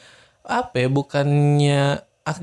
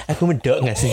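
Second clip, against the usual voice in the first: imitating her Javanese accent. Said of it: "Kalau dia nih".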